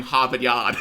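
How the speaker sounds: "Harvard Yard" in a Boston accent, r dropped; Boston "Hahvahd Yahd". Shown as a demonstration. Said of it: "I can do the Boston accent".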